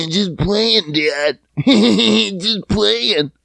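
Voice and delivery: mock giggle through the words; imitating giggling kid. Kid excusing a rude finger to Dad, imitated giggly teasing. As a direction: play a kid laughing off mischief.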